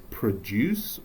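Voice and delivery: "produce" as pruh-DOOSS, stress on the second syllable; weak first syllable in "produce", strong DOOSS. Shown as a demonstration. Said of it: "There's a difference".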